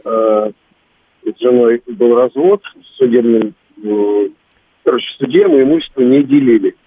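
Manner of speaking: гулкий звук, как из бочки; говорит будто из бочки; как в бочке. Real, not acted. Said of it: "вы чуть-чуть в бочке говорите". (как из бочки)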